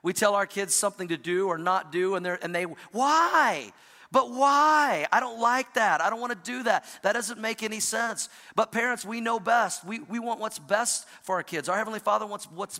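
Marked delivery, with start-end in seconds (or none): 2.9-8.3 put-on high, loud whining child asking why; whiny kid. Pastor voicing his kids whining at their parents. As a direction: whine it like a stubborn little kid.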